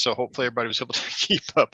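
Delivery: breathless, rushing with a laugh; winded from talking fast; out of breath. Real, not acted. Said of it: "I felt like I'm out of breath".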